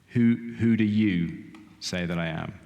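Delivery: slow, deliberate question with weight on "you"; measured delivery, "you" picked out; stress on YOU. Acted. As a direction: put the question squarely, leaning on "you". Puts Jesus' question to congregation.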